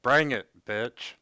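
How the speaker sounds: breaking up on a bad connection; muffled mic cutting in and out. Real, not acted. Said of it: "You're cutting out there pretty bad".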